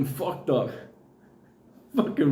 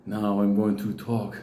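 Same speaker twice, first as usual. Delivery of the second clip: mock solemn ritual leader, barely lower; deep voice; 5 semitones lower than usual. Priest at the ritual announcing himself to the crowd, mock deep voice. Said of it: "he's talking with this deep voice".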